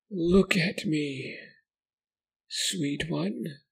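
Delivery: very high, slow, cooing like a mother; eerie caring voice. Acted. Creature cooing to the boy like a mother. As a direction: coax him like cradling a child. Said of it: "sounded caring".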